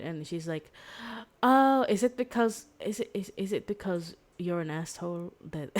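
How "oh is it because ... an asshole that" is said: mock-accusing, pitched up and louder; teasing jab. Retelling a book, she needles him about being rude. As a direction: poke fun at him with a sly accusation. Retold girl teasing the man.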